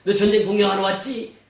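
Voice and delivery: acted big-brother telling-off; mock-angry rebuke with punched openings; angry scolding. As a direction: scold a little brother, fairly loudly. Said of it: "화를 내면서 말합니다".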